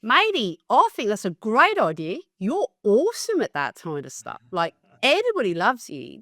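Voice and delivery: put-on high, over-the-top Australian accent; bad Australian accent. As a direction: ham up an Aussie mate's voice. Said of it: "bad Australian accent incoming".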